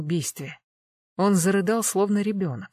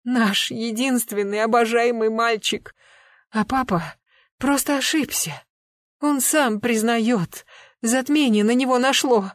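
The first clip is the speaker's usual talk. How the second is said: tearful pleading; 5 semitones higher, 4 dB louder than usual. A narrator's reading. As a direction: plead through the crying. Mother pleading in tears.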